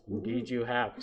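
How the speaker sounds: lightly voiced owl pronouncement; mysterious owl voice. Shown as a demonstration. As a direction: intone it lightly as a wise owl. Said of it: "said a voice like this".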